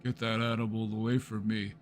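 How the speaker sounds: hammed-up manly disgust; a hint of a gruff macho guy; mock macho man. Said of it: "You have to be like".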